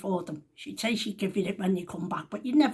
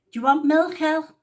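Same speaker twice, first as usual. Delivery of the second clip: raised call to the next room; shouting through; 7 semitones higher, 7 dB louder than usual. Retold or imitated. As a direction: call out loud through to her. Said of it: "Shouts through again".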